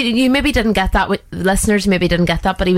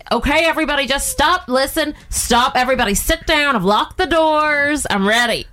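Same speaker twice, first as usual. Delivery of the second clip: higher, strained mock president voice; hammed-up impression, pitched up, stretching the ends of phrases; Donald Trump; 6 semitones higher than usual. Player robbing a bank as the president, high constipated-sounding impression. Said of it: "Oh, Donald Trump".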